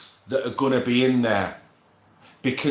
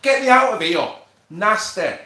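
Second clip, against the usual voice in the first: mock disgust; 4 semitones higher than usual. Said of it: "I'm like".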